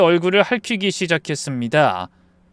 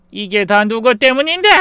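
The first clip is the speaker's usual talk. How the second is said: raised, higher voice, blaming; accusing shout; 6 semitones higher, 5 dB louder than usual. Acted. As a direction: throw the blame in an angry yell. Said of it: "소리쳤습니다".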